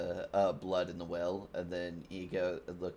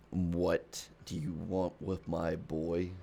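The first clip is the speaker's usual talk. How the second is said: slightly slow, measured stern father; a hint of a protective father; Kratos; 2 semitones lower, slower than usual. Man of Flames questions visitors about his boy, lightly voiced stern father. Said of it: "he's just Kratos".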